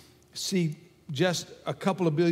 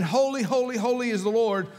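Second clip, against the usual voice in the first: raised, fervent cry of holy; angels' praise; 5 semitones higher than usual. Retold or imitated. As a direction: proclaim it like the angels around the throne. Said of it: "they've been saying".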